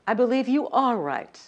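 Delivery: you lifted high and loud; stress on you. Shown as a demonstration. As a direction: punch the word you. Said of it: "move the emphasis along the sentence".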